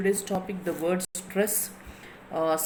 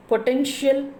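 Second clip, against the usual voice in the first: potential with a higher, stressed TENTIAL; 5 semitones higher than usual. Shown as a demonstration. Teacher showing students the stress, potential with TENTIAL lifted. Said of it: "potential is stressing".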